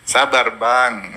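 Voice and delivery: slow, soothing "Sabar, Bang"; gentle "Sabar, Bang". Shown as a demonstration. ("Sabar, Bang" pelan dan halus)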